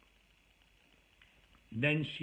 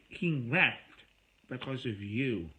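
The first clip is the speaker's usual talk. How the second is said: louder, sharper echo with a jab on HE; turning it back; 5 dB louder, slower than usual. Retold or imitated. Throwing her blame back at her, a louder sharp echo. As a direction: throw her words right back, harder. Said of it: "I said".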